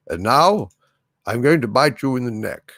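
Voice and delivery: lightly voiced deep British vampire; a hint of a deep British accent; Christopher Lee. Streamer tries out a vampire line, lightly deep British voice. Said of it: "a rather deep, uh, British accent".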